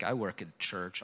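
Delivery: low, quiet reluctant answer; imitated bashful mumble; sheepish retold admission. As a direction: say it small, almost under your breath. Sheepish answer about his job.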